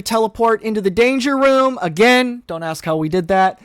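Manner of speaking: put-on playful tour guide teen; class clown voice. Bobby jokes and leads tour.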